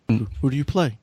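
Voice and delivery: usual speaking voice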